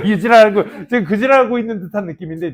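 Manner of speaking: laughing while mocking the students; laughing mockery. Real, not acted. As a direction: tease them through a laugh. 학생 흉내 비꼬기. (웃으며 비꼬는 말투)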